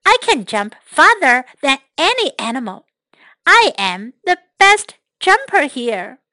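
show-off tiger crowing about himself; boastful tiger. Acted. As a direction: brag like a cocky young tiger. Tiger bragging in story.

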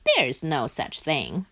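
lightly voiced low, unbothered Duck; dismissive Duck. Duck dismisses Frog's fear.

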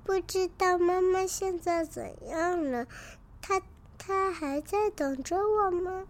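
put-on a child fretting about his sick mother; sad. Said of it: "悲伤地回答". (担心妈妈的孩子，声音偏高带点难过)

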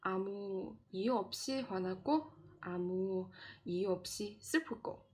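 quick rhythmic read of the Korean line; fast reading. Shown as a demonstration. Teacher reading the example line quickly. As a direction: rattle it off quickly. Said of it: "然后第三句".

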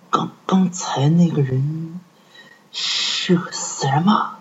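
trembling, stammering whisper; frightened whisper. Acted. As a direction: ask it terrified, barely breathing. Frightened patient asks doctor. (惊恐的耳语)

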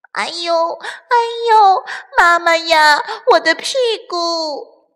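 high loud yelps of pain; ouch cries. Acted. Bruised chicks crying out over their sore bottoms. Chicks hurt after tumbling.

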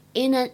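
"in an" and "line of" run together; linking. Shown as a demonstration. Teacher demonstrates linking for students. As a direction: link "in an" and "line of" smoothly. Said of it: "可以连读".

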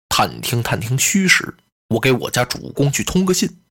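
a loyal aide calmly advising the general; Sun Qian's voice. Acted. Storyteller voices Sun Qian.

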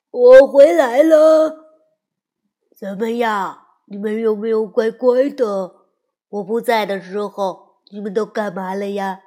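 cheerful homecoming. A narrator's reading. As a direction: announce you're back, big and bright. Hector returns home cheerfully. (埃克多大声欢快地回家)

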